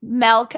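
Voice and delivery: "Milk" said as "melk"; childhood milk. Shown as a demonstration. Co-host showing how she grew up saying it, "Milk" as "melk". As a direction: give "Milk" an E vowel, as in "melt". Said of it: "I grew up saying milk".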